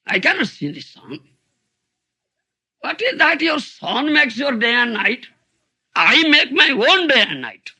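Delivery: put-on blind boy's retort. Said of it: "That blind boy was hearing".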